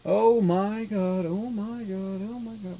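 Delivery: breathless, hushed disbelief building up; shrieking jackpot winner. Real, not acted. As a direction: chant it like you just hit the jackpot. Windows boots.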